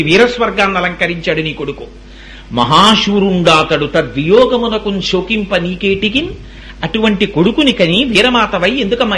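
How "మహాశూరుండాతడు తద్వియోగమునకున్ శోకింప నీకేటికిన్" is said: slow, measured verse reading; verse recitation. Acted. Preacher quotes verse consoling a grieving mother, slow recitation. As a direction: stretch the long syllables like poetry. Quoting a scripture verse to listeners.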